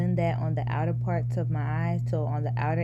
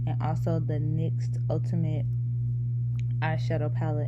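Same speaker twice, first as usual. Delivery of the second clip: talking around retainers; slightly lisped speech from retainers; wearing a retainer. Real, not acted. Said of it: "so that's kinda why I'm talking weird".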